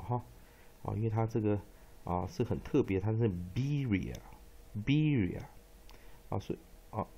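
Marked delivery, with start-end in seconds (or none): 3.5-5.4 "Beria" said slowly with an i sound after the B, BIH-ree-uh; short i in "Beria". Shown as a demonstration. Teacher pointing out a special vowel, "Beria" with short i. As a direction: demonstrate "Beria" slowly, twice, with i rather than e. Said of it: "要念短译音".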